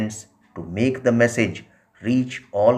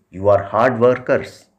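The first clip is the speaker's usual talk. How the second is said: "hard workers" pressed a little louder; stress on hard workers; 4 dB louder than usual. Retold or imitated. Translator echoing Baba's emphasis to the Kumars, "hard workers" stressed. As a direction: lean on "hard workers" the way Baba did. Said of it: "Baba emphasizes the word hard workers".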